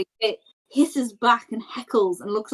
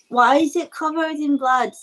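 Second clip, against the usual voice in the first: higher-pitched in-character question; 5 semitones higher than usual. Acted. Player asks the stranger in character, questioning. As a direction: lift the voice to ask, puzzled. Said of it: "I'll tell him to ask".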